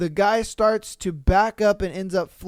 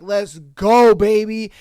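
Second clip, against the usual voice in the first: louder, pumped mock cheer; eager cop; 6 dB louder than usual. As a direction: hype up for the chase. Cops eager to chase the drunk.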